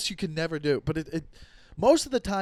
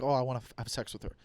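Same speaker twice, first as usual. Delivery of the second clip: inner voice; 5 semitones lower, 6 dB quieter, much faster than usual. Retold or imitated. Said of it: "thinking about".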